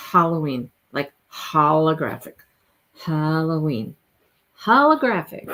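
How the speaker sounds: Halloween matched to holographic, "hah-lo-ween"; own pronunciation. Shown as a demonstration. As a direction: pair Halloween with the "hol" of holographic. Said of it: "I say Halloween".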